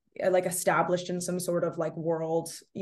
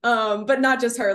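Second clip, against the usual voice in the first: laughing; 6 semitones higher, 9 dB louder than usual. Real, not acted. Laughing while telling.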